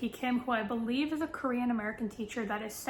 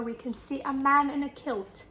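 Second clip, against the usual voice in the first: a bad, half-hearted stab at a Scottish accent; fumbling a Scottish accent for a laugh; terrible Scottish accent; 2 semitones higher than usual. Vlogger describing the cover man, in a botched Scottish accent. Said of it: "That was a terrible accent".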